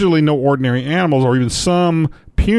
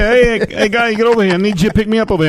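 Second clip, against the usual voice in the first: higher, pleading pet rat voice; talking rat; 8 semitones higher, faster than usual. Pretend. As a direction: beg like a caged rat wanting out. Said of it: "Do they have that accent?".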